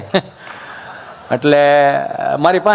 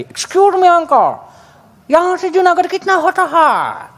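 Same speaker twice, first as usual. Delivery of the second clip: much higher, a foreigner trying Hindi again; high foreign tourist voice; 8 semitones higher, slower than usual. Retold or imitated. Tourist asks the old man the way, high and foreign-sounding. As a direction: pitch it way up like a lost tourist. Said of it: "બીજી try કરી".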